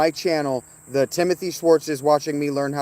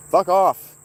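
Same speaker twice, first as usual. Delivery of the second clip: angry snap; 6 semitones higher, 6 dB louder than usual. Real, not acted. Streamer snaps at chat.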